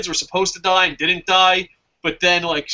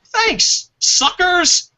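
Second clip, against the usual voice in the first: gleeful gloating; 3 semitones higher than usual. Retold or imitated. Fan taunting WWE for a free match, mock gloat. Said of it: "I was like".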